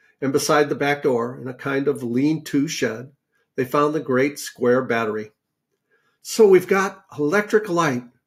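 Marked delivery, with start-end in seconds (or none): 6.2-8.0 breathed out, slightly high. Homily backs away from a battery found in a shed; breathed. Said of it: "breathed Homily".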